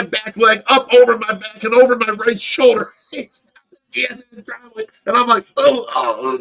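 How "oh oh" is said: high, loud mock cries of oh; imitated pained groan. Telling how the buggy ran over him, mock groaning. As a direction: act out being flattened.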